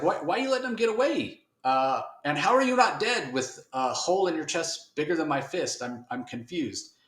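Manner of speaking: high, bewildered mock voice; Spawn's buddies, bewildered, in a high put-on voice; baffled buddies.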